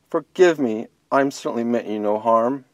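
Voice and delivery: alarmed bunny. Acted. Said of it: "she cried with alarm".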